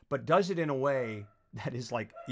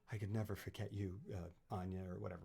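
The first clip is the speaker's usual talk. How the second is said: mumbled quote; 7 semitones lower, 11 dB quieter than usual. Retold or imitated. Mumbling the character's line.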